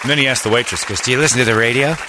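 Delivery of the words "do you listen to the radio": higher, put-on showy question; Jon Lovitz voice. Lovitz asks the waitress, hammy impression. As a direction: ask it as a hammy star fishing for recognition. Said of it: "In that voice".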